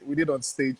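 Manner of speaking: usual speaking voice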